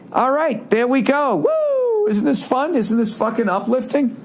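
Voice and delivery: sarcastic. Acted. Sarcastic cheer after bleak rant.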